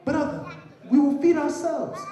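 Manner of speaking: high, loud, panicky refusal; frightened older brother. Acted. Scared brother refusing to leave the farm, panicky and high. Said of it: "I'm afraid".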